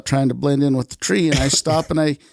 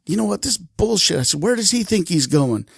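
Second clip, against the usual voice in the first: higher, indignant retort; fed-up father, pitch raised; angry confrontation; 5 semitones higher than usual. Retold or imitated. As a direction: challenge them with mild retold anger. Angry father confronts son's friends.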